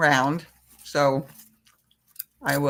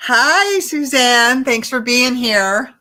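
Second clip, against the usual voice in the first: bright greeting; 8 semitones higher, 9 dB louder, slower than usual. Real, not acted. Greeting a viewer.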